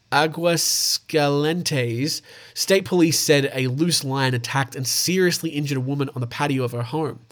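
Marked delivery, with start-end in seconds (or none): 0.1-2.2 "Aguascalientes" sounded out very slowly, syllable by syllable; careful pronunciation. Real, not acted. Unsure host slowly tries the Mexican city name "Aguascalientes". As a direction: slowly spell out "Aguascalientes" with the mouth. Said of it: "I don't even know how to pronounce that".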